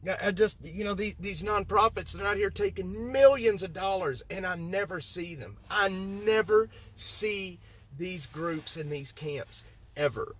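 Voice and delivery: heat up as the anger builds; real anger spilling over about the nonprofits; getting mad. Real, not acted. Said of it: "now I'm getting mad".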